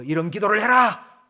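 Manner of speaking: loud, commanding voice from above; imitated booming order; mysterious divine voice. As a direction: proclaim it like a mock heavenly command. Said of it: "뭔가 음성이 들려오고".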